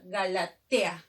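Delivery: slow "Galatea" with "tea" as one syllable; "Galatea", last two vowels run together; joined vowels. Shown as a demonstration. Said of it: "se tiene que juntar".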